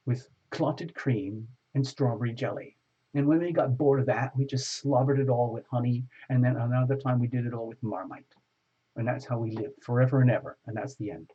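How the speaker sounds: mock posh British accent, storytelling. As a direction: put on an English accent for the tale. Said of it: "I pride myself on that accent".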